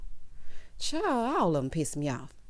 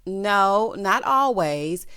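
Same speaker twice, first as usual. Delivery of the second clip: loud retort; 5 dB louder, much slower than usual. Real, not acted. Retort to quoted Kyle.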